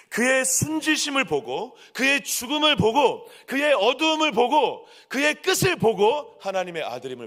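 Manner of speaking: high, driving sermon crescendo; impassioned preaching. Real, not acted. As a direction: hammer each phrase out to the congregation. Preaches at full force. (열정적으로 외치는 설교)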